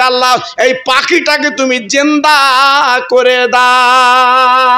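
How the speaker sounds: drawn-out prayer lifting each word; slow pleading prayer. Acted. Saint prays slowly for the dead bird. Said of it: "হাত দুটো তুলে বলে".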